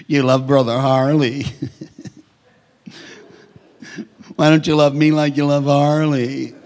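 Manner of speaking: whiny jealous plea through a laugh; mock the jealous one, laughing; laughing mock whine. Preacher mocking a jealous believer, laughing a little. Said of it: "'Cause you're the black sheep".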